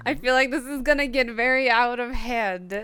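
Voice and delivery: laughing while talking. Real, not acted. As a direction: giggle through it. Laughing at the game.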